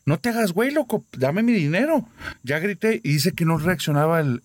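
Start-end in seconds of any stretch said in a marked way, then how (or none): 0.1-2.1 high, pushy shout for the money; shouted demand. Retold or imitated. Girl demanding her bet money from boyfriend, high shout. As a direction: yell at him to pay up. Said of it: "Grité bien fuerte".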